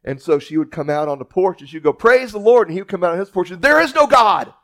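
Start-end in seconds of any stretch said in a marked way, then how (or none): 1.9-2.7 called-out praise. Acted. Old lady calling from porch. 3.6-4.5 high, loud defiant shout across the yard; hammed-up atheist bellow; mock shouted retort. Atheist neighbor shouting back.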